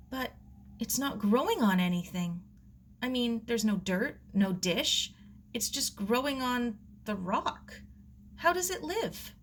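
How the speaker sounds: lightly voiced girl, rising with wonder; a hint of a girl's eager question; puzzled girl asking the old gardener, lightly voiced; curious young girl. Sarah asks about strange bonsai.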